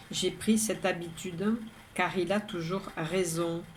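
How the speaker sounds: measured, even poem reading with pauses between lines; poem recitation. Acted. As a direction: recite it line by line, evenly. Third reading of own poem.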